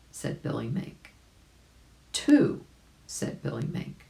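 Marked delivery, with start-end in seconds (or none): 2.1-2.6 excited. Acted. Billy Mink counts for the dive.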